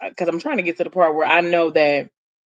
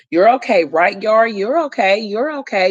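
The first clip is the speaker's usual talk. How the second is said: lightly acted, higher-pitched reassurance; soothing baby talk; 4 semitones higher than usual. Mother telling her baby daughter she's okay, soothing baby talk.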